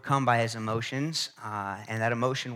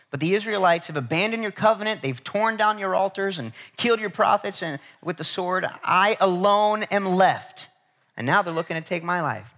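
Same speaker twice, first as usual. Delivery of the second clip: anguished complaint; 6 semitones higher, 5 dB louder than usual. Retold or imitated. Preacher voices Elijah complaining to God.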